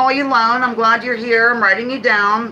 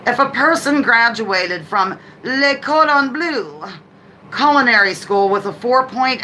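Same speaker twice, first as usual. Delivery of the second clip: put-on French accent; 2 semitones higher than usual. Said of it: "a little French accent with Southern thrown in".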